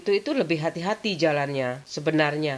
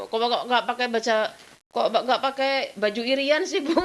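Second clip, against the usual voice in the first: put-on girlish protest, higher; 7 semitones higher than usual. As a young girl asking mother.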